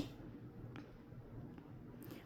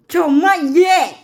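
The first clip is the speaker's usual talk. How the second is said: much higher, loud, slow strange voice; a gleeful demon cutting in; loud, high, drawn-out devil taunt; 11 semitones higher, 8 dB louder than usual. Acted. Voicing Lucifer not done yet.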